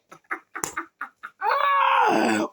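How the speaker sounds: loud, piercing laughing shriek; high squealing laugh. Real, not acted. Storyteller cracking up at his own joke, high squealing laugh. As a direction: let the laugh shoot up into a squeal.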